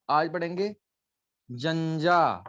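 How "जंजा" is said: teacher models जंजा for class; जंजा said slowly, each syllable clear. Shown as a demonstration. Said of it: "बोलो".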